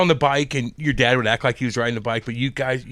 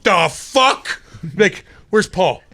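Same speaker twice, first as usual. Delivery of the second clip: mock angry Walt; 2 semitones higher, 4 dB louder, slower than usual. Veteran Walt yells for Paulie to confront the coach, mock angry. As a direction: bark it like an annoyed captain. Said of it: "Walt get up like".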